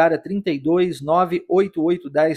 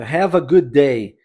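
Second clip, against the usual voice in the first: slow model phrase; 4 semitones lower, 4 dB louder, much slower than usual. Shown as a demonstration. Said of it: "ele não precisa dizer a frase completa".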